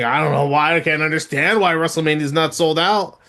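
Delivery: a hint of British accent; Wade Barrett. Host quoting a puzzled commentator on ticket sales, slight British accent. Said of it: "in his, in his accent saying".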